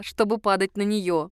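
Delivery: plain reading voice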